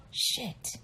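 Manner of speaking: soft breathy curse under the breath; muttered curse. Retold or imitated. Cousin realizing she's busted, cursing under her breath. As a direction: curse quietly, caught out.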